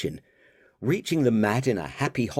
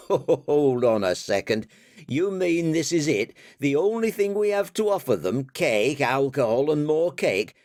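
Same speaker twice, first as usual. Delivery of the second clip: higher, disbelieving and quick; can't believe it's only cake, higher; incredulous; 6 semitones higher than usual. Acted. Character protesting the dessert party, higher disbelief.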